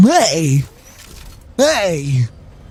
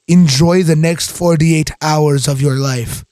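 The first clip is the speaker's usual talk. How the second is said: ominous; 3 semitones lower, slower than usual. Shown as a demonstration. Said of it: "wildly different meaning depending on how you say it".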